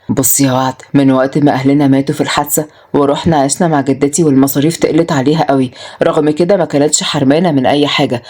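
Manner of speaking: lightly voiced, low-pitched male character; low, understated confession; earnest man confiding. Voices Adham confiding his past.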